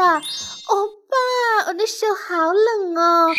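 lightly voiced girl acting cute, drawing out each word; cutesy girl. The girl whines to the boy she likes, slow and cutesy.

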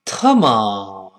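low, falling burst; angry Chinese exclamation. Acted. Acting a Chinese person getting angry, angry exclamation. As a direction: spit it out crossly with a low fall. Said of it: "中国人一生气说".

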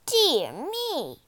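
high, loud, swooping lament; sighing witch. A narrator's reading. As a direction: swoop through it in theatrical dismay. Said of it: "sighed the witch".

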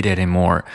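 "eat anymore" linked with a light flap; tongue-tip flap linking. Shown as a demonstration. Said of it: "舌尖有一个非常轻的一个跳跃". (舌尖轻跳连读)

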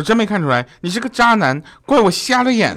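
high-pitched mock outrage, climbing as it goes; angry confrontation. Wife confronts her cheating rich husband, angry. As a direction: imitate a wronged wife berating her husband. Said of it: "小妹子呢就很生气啊".

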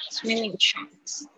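"swimming trunks" drawn out slowly, ending on a rising tune; slow echo for students to copy; slow repeat with a rise. Shown as a demonstration. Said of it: "我就是先念这些单词".

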